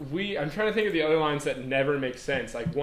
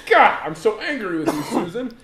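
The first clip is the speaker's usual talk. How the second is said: mock anger; 3 semitones higher, 3 dB louder than usual. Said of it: "mock angry line".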